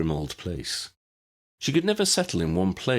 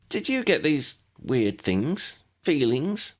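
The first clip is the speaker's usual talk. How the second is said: slow, higher, pleading question; 7 semitones higher, slower than usual. Acted. Lydia pleads with the wizards about her feelings, slow and higher. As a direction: beg for an answer, drawn out. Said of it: "Lydia pleaded".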